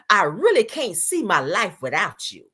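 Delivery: slow, weighty reading of a love text; hammed-up romantic declaration; mock heartfelt plea. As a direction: savor each word with put-on devotion. Reads his pleading text mockingly.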